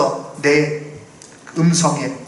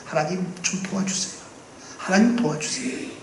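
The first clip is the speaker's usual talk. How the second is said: soft, half-whispered plea; barely voiced cry for help; softer, breathy inner plea to God; 2 semitones higher, 8 dB quieter than usual. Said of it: "목소리로 나오지 않아서 속에서만 절규를 해요".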